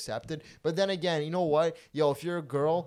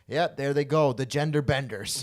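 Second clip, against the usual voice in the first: show narrator; 6 dB louder than usual. Retold or imitated. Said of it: "the narrator was like".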